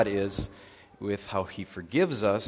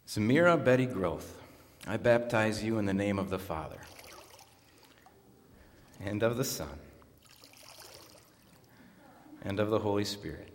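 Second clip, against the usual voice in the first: measured, solemn liturgical delivery; formal baptism liturgy; 2 semitones higher, 4 dB louder than usual. Acted. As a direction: pronounce the rite formally to the congregation.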